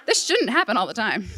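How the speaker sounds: laughing through the words; half-laughing disbelief at locals; laughing protest. Retold or imitated. Telling the crowd this shouldn't be normal, laughing. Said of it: "I was like".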